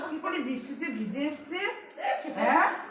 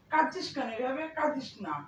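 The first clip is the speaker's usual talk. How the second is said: low, soft comforting; soothing; 4 semitones lower, 7 dB quieter than usual. Real, not acted. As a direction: gently hush someone who is crying, voice dropping. Comforting someone who is crying. (নিচু নরম গলায় সান্ত্বনা)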